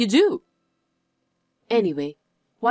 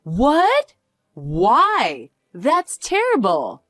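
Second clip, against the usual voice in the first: shocked; much slower than usual. Acted. Told to go home.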